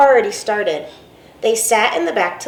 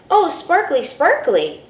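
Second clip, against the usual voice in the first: put-on delighted child; 7 semitones higher, slower than usual. Delighted child sees sparkle.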